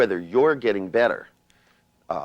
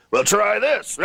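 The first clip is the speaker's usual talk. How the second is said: higher, louder mock shout; loud challenge; 11 semitones higher, 4 dB louder, slower than usual. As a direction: throw the dare out loudly. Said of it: "And you go".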